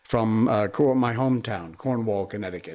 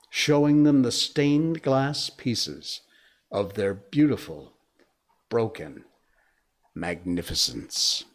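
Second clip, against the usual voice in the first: poem reading. Acted. Host reading a viewer's poem to the chat, measured. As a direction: read the poem gently, letting each line land.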